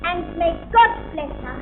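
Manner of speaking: grand, measured opening address; ceremonial speech. Acted. Celebrity opening a scout garden fete, grand formal speech. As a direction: declare it open like visiting royalty.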